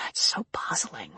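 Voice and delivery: soft, breathy musing; whispering. Acted. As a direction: whisper it to yourself. Quiet musing aloud.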